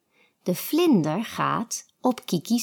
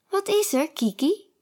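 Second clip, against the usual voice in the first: bookworm Olaf; 9 semitones higher, faster than usual. A narrator's reading. Olaf's voice.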